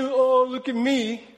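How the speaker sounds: slow, drawn-out mock woe; mock self-pity. Mocking the cup half empty believer, self-pitying. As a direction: drag it out like a mild pity party. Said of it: "cup half empty mindset".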